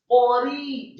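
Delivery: "qori" with a light, thin R. Shown as a demonstration. Teacher models correct tajwid for learners, thin R in "qori". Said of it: "roknya dibaca tipis".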